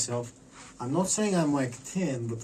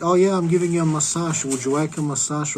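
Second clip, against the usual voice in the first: cheery massage offer; 4 semitones higher, 5 dB louder than usual. Retold or imitated. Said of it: "it's like".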